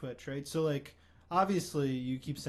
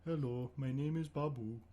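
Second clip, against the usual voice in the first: Babu inflection; 4 dB quieter than usual. Acted. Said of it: "say it in different inflections".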